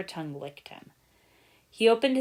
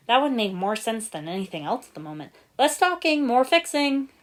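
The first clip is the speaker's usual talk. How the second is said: sharp order; 5 semitones higher, 6 dB louder than usual. Acted. Nia snapping at team.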